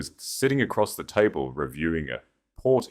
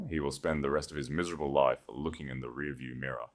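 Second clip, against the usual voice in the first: softer, low and final; quiet; 3 semitones lower, 7 dB quieter than usual. Acted. Duchess to Connor after the letter, quiet and final. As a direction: let it fall quietly, almost to herself. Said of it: "I said quietly".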